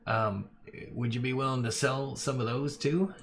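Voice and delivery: wheedling merchant making an offer; boss voice. Acted. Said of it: "He goes".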